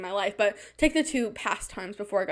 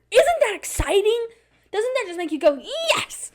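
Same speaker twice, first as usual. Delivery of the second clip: sarcastic; 11 semitones higher, 4 dB louder than usual. Real, not acted. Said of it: "I'm really scared".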